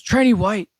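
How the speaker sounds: high, loud barked name call; drill instructor bark. Retold or imitated.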